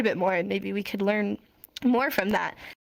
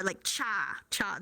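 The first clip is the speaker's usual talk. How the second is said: cha sound demo; 4 dB quieter, slower than usual. Shown as a demonstration. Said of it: "That's the sound you're gonna make".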